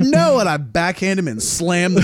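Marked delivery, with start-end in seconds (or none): 0.0-0.4 high, sharp no; retold flat refusal. Refusing the creep at the door, sharp no. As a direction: slam it shut. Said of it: "I said".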